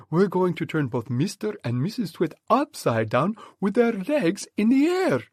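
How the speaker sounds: rally the troop with firm excitement; the monkey father calming his family; Mugglewump's voice. Acted.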